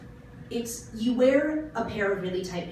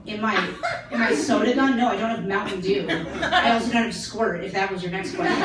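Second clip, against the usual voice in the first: exasperated sarcasm; 6 dB louder than usual. Retold or imitated. Exasperated bartender retort.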